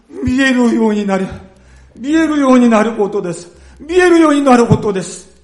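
high, loud, fast pleading; pleading cry. Acted. Blind beggar begging Jesus for sight, loud plea. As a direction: beg desperately to see.

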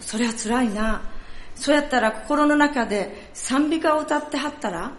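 a pastor answering in light Kansai dialect; reply kindly in Kansai dialect; Kansai accent. Acted. Pastor voicing the Kansai pastor's advice, in a Kansai accent. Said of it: "ちょっとここから関西弁になりますので".

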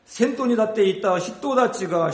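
ordinary talk

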